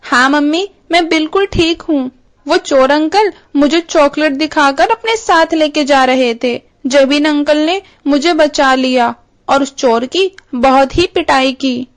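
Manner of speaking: put-on a small kid telling his mum what happened; little boy. Chintu telling his mother he is safe, childlike voice.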